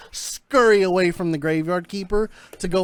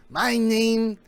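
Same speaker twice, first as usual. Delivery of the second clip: slow, halting, rising to his name; odd scientist voice; 3 semitones higher, slower than usual. Acted. Doctor Zillock introduces himself to Granite, slow and halting. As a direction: draw it out then announce the name.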